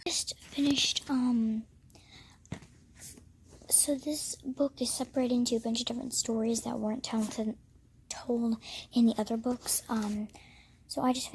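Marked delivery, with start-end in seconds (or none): 0.1-9.8 hushed morning whisper. Real, not acted. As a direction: whisper so no one wakes.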